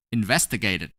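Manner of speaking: "Investigated" with an extra final syllable, "id"; ED pronounced as "id". Shown as a demonstration. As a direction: sound out the ED in "Investigated" as "id". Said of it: "pronounce E D as it".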